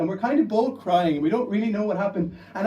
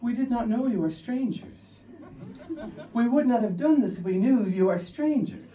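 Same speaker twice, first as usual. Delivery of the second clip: apologetic attackers; 5 semitones higher than usual. Retold or imitated. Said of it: "they say in English".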